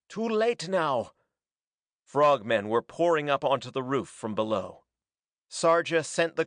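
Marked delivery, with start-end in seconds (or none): 0.1-1.1 high, slow urgent cry; mildly breathless urgency, drawn out and high; panted urgency. A narrator's reading. Sarja at the boat's controls, panted urgency. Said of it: "he panted".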